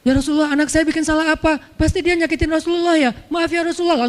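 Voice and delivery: high, crying plea to the Prophet; a father near tears, begging pardon; Umar, ashamed of his daughter, apologizing tearfully to the Prophet; tearful apology. Acted.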